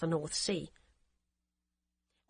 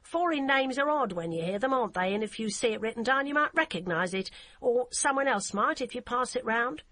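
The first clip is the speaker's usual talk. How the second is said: put-on heavy German accent; 4 semitones higher than usual. Hamburg policewoman answering the phone in a curt, heavy German accent. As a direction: clip it like a stiff German officer. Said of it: "with an accent so heavy".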